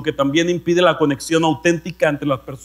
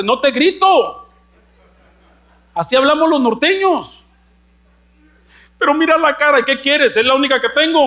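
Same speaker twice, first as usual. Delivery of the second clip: a mock-gruff, raised northern voice; 8 semitones higher than usual. Se imita, voz norteña fuerte. (voz norteña fuerte y tosca, en broma)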